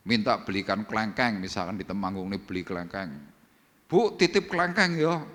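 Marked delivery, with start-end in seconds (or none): 3.9-5.3 asking a favor. Acted. Acted request to a rich boss.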